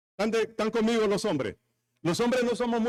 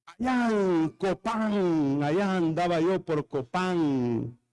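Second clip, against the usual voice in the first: lazy reminiscing drawl; 2 semitones lower, slower than usual. Pretend. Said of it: "tal vez se ríen con este chiste".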